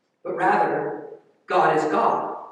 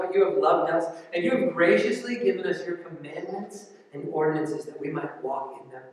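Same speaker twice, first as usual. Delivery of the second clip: prayer; 3 semitones lower than usual. Acted. Pastor prays before sermon.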